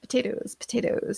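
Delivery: soft Irish-accent warm-up on potatoes. Shown as a demonstration. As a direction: try out an Irish accent, softly. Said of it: "I have to get into character here".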